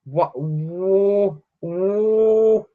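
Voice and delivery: very high, drawn-out squealing disbelief; high-pitched slow freak-out; starstruck meltdown. Real, not acted. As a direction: wail in delighted shock, stretching the words. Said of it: "meltdown, meltdown".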